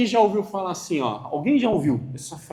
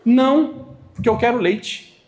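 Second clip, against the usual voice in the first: father's calm reply; 4 semitones higher, 4 dB louder than usual. Retold or imitated. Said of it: "Olha a frase dele".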